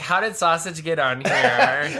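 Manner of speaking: slow, laughing mock-innocent question. Pizza maker faking surprise at the wrong order, laughing. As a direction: play dumb through a giggle.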